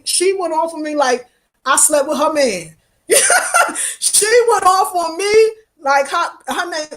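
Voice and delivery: a high laugh that runs into the words. Real, not acted. She laughs while telling viewers how a woman went off on her.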